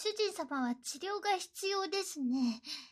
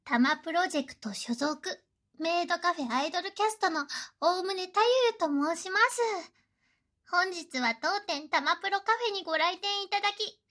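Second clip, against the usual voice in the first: sugary maid cafe greeting; 4 dB louder than usual. Acted. Maid cafe welcome to master.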